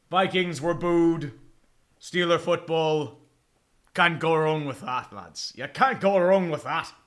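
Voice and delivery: half-hearted mock Irish brogue; put-on Irish lilt; bad Irish accent. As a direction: do a badly faked Irish accent. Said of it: "a shitty Irish accent".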